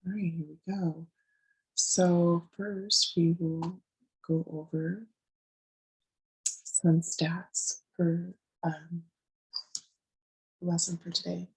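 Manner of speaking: raspy, worn-out voice; speaking through a voice that's going; losing voice. Real, not acted. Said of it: "excuse my voice, I'm losing it".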